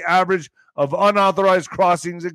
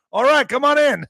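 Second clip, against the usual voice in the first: high mock officer; 7 semitones higher than usual.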